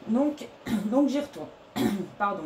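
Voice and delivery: rough, breaking voice after throat clearing; voice cracking. Real, not acted. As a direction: voice giving out, cracking. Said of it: "j'ai la voix qui part en cacahuète aussi".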